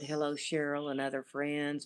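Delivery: plain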